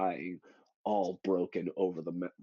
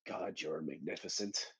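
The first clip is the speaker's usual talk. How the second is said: Namor; 4 semitones lower, 10 dB quieter than usual. Retold or imitated. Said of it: "all Namor has to say is".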